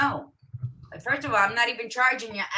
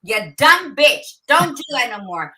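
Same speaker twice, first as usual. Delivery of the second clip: scolding herself; 5 dB louder than usual. Retold or imitated. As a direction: tell yourself off hard. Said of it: "to me, it's like".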